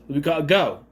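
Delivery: lightly mimicked British accent; a hint of British accent, quoting an actor; imitated British accent slip. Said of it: "did he just go into his accent".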